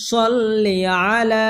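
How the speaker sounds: short "লি" in সল্লি, stretched end of আলা; measured recitation. Shown as a demonstration. Teacher showing where to stretch, সল্লি আলা recited slowly. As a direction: recite সল্লি আলা slowly, holding only the last vowel. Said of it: "সল্লি কোনো টান হবে না".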